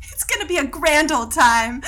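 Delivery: a hint of prim old-fashioned lady; old-timey phrasing. Imitating the friend's quaint reply to the instructor, lightly old-fashioned. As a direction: say it like a prairie pioneer, lightly. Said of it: "Who talks like that?".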